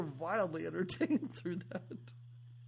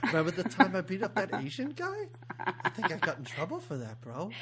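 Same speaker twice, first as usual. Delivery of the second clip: put-on Boston accent. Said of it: "Is that your Boston accent".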